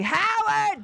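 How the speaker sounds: high, drawn-out mock holler; Missus Wallowitz. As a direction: yell like a sitcom mother calling her son. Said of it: "she was Missus Wallowitz on The Big Bang Theory".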